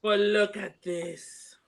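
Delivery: slow hushed whisper. Real, not acted. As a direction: breathe it out, secretive. Showing the deck, hushed.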